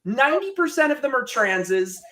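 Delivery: high-pitched, worked-up comic outrage; exasperated rant. Real, not acted. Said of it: "not to rant about that".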